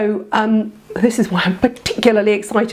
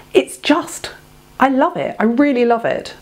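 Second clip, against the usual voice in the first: gushing; 6 semitones higher than usual. Real, not acted. Vlogger gushing to viewers about her new hair spray, excited. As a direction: pitch jumps up with real delight.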